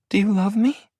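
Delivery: put-on high girlish voice, sniffling no; tearful young woman. Star crying, refusing Maddie's misunderstanding, high and tearful. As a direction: shake your head through tears.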